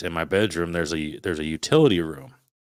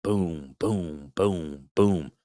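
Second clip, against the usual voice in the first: banging noise; much slower than usual. Retold or imitated. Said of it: "the noise is underneath my window".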